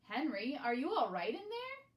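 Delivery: calling out. Acted. Friends call into the box.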